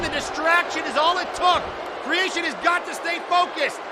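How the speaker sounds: ordinary delivery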